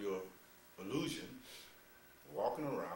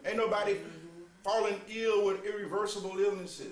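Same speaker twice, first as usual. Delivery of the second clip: mocking scorn; 8 semitones higher, 8 dB louder than usual. Mocking the careless view.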